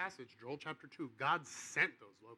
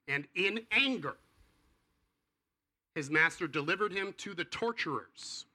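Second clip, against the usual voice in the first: solemn scripture reading; 3 semitones higher, 6 dB louder than usual. Real, not acted. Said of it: "scariest passage in the entire Bible".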